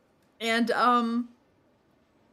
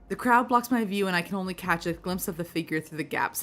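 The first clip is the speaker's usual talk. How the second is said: storytelling read-aloud, settling after a raised start; story narration. A narrator's reading. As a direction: narrate it evenly, like reading a novel. Reads the game's narration aloud.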